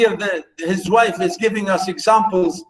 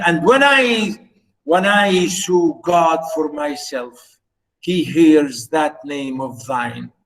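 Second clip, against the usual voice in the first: slow poem recitation; 2 semitones lower, slower than usual. Acted. No, she said.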